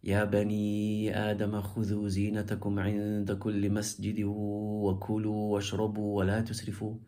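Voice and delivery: measured Quranic chant on a level tone; even, melodic recitation. Shown as a demonstration.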